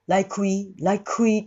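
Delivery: "like we" run together, the K barely said; soft linked K. Shown as a demonstration. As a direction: slip lightly from "like" into "we". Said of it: "このlikeのくも". (「like we」のkを軽くつなぐ)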